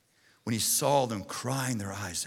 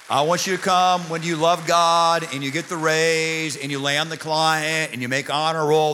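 energetic, projected sermon delivery; driving pulpit exhortation; preaching; 3 semitones higher, 6 dB louder than usual. Real, not acted. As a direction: preach it out to the whole congregation.

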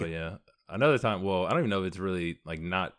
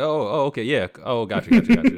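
mock understanding; 6 semitones higher, 9 dB louder than usual. Acts out pretending to have heard.

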